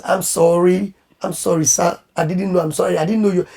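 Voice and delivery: soft, apologetic pleading; mild imitated pleading; begging. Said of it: "She's begging".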